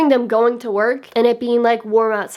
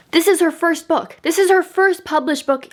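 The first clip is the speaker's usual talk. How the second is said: higher-pitched amazed disbelief; incredulous admiration; 5 semitones higher than usual. Real, not acted. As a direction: marvel at it in disbelief, pitch lifted. Disbelief at a debut this good.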